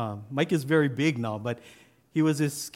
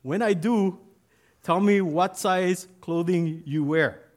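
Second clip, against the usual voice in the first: high barked drill sergeant call, slow at the end; a sergeant shouting at new recruits on the first day; sergeant yelling; 5 semitones higher, 4 dB louder than usual. Retold or imitated. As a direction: bark the orders like a drill sergeant. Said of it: "clothing sergeant yells out".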